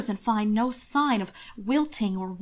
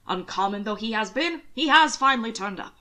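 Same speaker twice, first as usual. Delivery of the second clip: hearty uncle, rising louder at the end; loud approval. Acted. Uncle Robert approves loudly. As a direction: finish the approval with a boom. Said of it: "overly loud approval".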